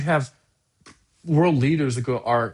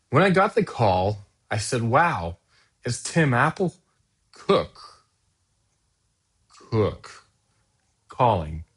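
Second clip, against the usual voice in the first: reading Trump's post again; slower than usual. Retold or imitated. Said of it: "let's go back to the top".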